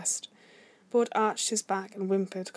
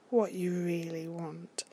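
slow, breathy whisper, drawn out; soft, lingering whisper; coaxing whisper; 2 semitones lower, 5 dB quieter, slower than usual. A narrator's reading. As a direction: whisper it slowly to coax. Character coaxing in a story.

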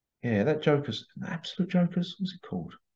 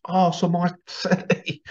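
high, whispered mock horror; imitating a horrified clean freak; disgusted whisper; 7 semitones higher than usual. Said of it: "his Sal's going".

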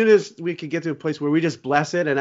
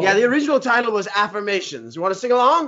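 lightly voiced rock star, higher; a rock guitarist impression; 4 semitones higher than usual. The imitated guitarist inviting the host to sing along, higher pitch. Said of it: "It's Eric Clapton".

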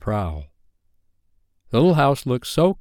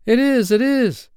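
put-on very high, drawn-out childlike cheer; high, delighted agreement; excited cry; 13 semitones higher, 4 dB louder than usual. A narrator's reading. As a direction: cry out eagerly like a bunch of children. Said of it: "they all cried".

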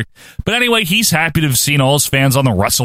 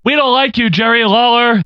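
Keith Hart; 8 semitones higher than usual. Acted. Podcaster attempts a wrestler impression for the co-host, high mock voice. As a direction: put on a higher, pushed wrestler voice. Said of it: "Who does a Keith Hart?".

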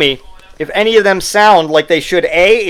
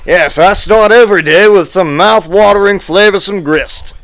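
put-on a light touch of an old Southern gentleman accent; old-timey Southern guy. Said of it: "old-timey Southern guy would be saying it".

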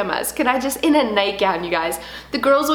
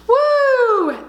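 high, loud whoop; 13 semitones higher, 5 dB louder than usual. Real, not acted. Mom laughing at herself, high loud whoop. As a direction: let out a giddy cheer.

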